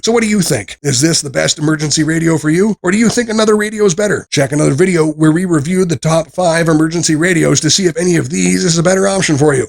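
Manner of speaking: rally the audience to comment and subscribe; loud upbeat sign-off. Acted. Reviewer urging viewers to comment, loud upbeat outro call.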